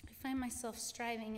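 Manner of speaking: "striving" given a light, deliberate emphasis; stress on striving. Real, not acted. Testifying to the church, light stress on "striving". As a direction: lean gently on "striving" at the end. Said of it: "I emphasize the word striving".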